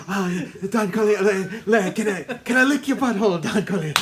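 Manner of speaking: grovel like a sniveling baker; hammed-up fawning baker; obsequious baker. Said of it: "that baker guy is so obsequious".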